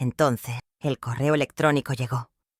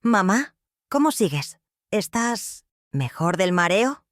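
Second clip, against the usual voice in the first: anxious son; 3 semitones higher, slower than usual. Acted. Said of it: "su voz ansiosa".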